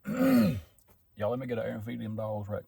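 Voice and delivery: throat catching, clearing mid-line; choking. Real, not acted. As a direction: talk while half choking on food. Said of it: "I'm gonna choke again".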